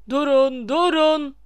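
loud, rising plea to stop the spell; shouting stop. A narrator's reading. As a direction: yell it to halt the chaos. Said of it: "diye bağırdı Lockhart". (telaşla yüksek sesle bağırış)

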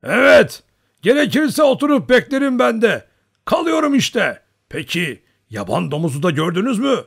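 high, loud eager calling out; great joy. A narrator's reading. Old hunter addressing all the Cossacks at once, overjoyed. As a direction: call to everyone, delighted. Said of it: "büyük bir sevinç içinde".

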